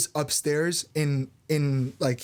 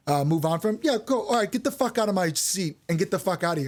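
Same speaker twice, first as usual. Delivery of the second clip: pitched-up, exasperated teacher rant; mock berating teacher. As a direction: scold the quitting kid with mock contempt. Teacher berating student in retold story.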